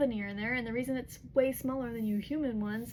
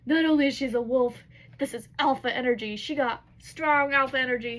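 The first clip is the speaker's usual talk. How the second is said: stunned exclaim; 3 semitones higher, 9 dB louder than usual. Retold or imitated. Ethan senses her alpha energy.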